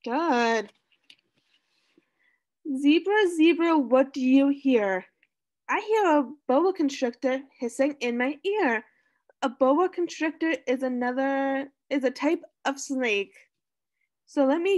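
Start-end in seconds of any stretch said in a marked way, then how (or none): 2.8-8.8 sing-song storybook reading; reading to children. Acted. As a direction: read it like a picture book for kids. Reading picture book to class.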